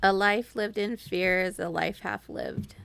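slow, careful reciting of a motto; slow solemn quote; slow recitation. Shown as a demonstration. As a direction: say each word deliberately like a saying. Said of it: "Now say it in Spanish".

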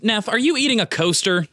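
chewing while talking; talking through a mouthful; mouth full. Acted. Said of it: "taking another gingerbread house".

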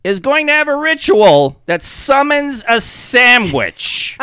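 high, loud, gleeful punchline. Real, not acted. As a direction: deliver the punchline in delight. Laughing at own plot twist.

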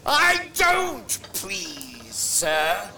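slow, heavy, hostile drawl; harsh refusal. Acted. Hyde rebuffing the pleading old man, hostile and slow. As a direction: spit the refusal back at him.

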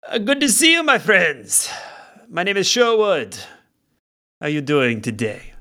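put-on a genial bard greeting old friends; bard Sherwood. Bard greeting the party, lightly voiced and friendly.

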